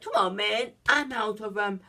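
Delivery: high, loud whiny protest; mock outraged protest, rising high; acted quote. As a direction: squeal it out like a cornered hustler. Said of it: "he's like".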